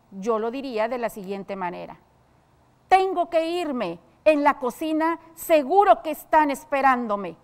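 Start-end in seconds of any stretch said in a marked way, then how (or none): 2.9-7.4 loud, high, slowed "Tengo" with a hard fall, then a loud annoyed rest of the line; angry. Shown as a demonstration. A servant angrily announcing she must get back to the kitchen. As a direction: snap it out, fed up and cross. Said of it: "aquí nos indica con enojo".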